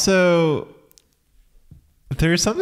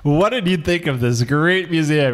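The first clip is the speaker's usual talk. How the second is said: higher, bright TV interviewer; news reporter voice; 3 semitones higher than usual. Pretend. Host mocking a New York One interviewer, higher reporter voice. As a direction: play a local TV reporter. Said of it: "You're like".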